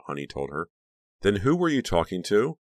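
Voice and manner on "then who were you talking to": demanding. A narrator's reading. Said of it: "Becca demanded".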